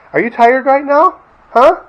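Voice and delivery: high sing-song pet voice. Real, not acted. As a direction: tease the dog in a squeaky voice. Baby talk to the dog.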